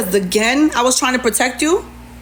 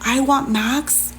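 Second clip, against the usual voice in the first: slow disbelief; 3 dB quieter, much slower than usual. Real, not acted. Disbelieving echo of accusation.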